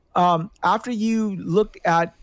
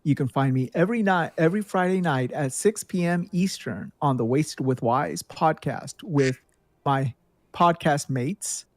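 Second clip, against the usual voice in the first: professor voice; 3 semitones lower than usual. Pretend. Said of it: "Let me put my professor voice on".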